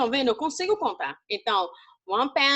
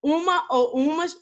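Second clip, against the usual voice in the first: slow stressed demo; slower than usual. Shown as a demonstration. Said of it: "ele tem o significado de uma ou uma".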